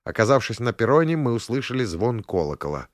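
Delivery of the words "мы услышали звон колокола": plain reading voice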